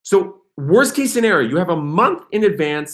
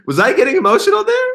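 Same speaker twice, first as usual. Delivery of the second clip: higher, fast laughing question; 4 dB louder, faster than usual. Real, not acted. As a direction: tease yourself while laughing.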